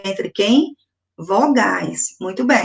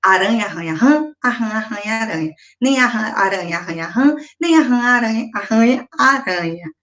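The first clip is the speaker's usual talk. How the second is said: tongue twister again. Shown as a demonstration. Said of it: "Então, mais uma vez".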